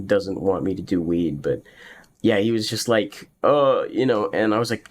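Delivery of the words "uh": short, higher mock-alarmed "uh"; imitated freak-out noise. Brother reacting to the news, mock freaked-out noise. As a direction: imitate a startled grunt of dismay. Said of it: "he was freaking out".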